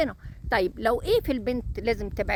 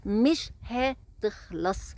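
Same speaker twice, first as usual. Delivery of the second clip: مش هتخلص drawn out very slowly, word by word; much slower than usual. Shown as a demonstration. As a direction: stretch مش هتخلص out slowly for weight. (مش هتخلص ببطء شديد ومط)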